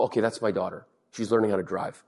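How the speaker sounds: low, soft self-reminder; sarcasm dropped. Retold or imitated. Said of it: "suddenly the comedy stops. The sarcasm stops".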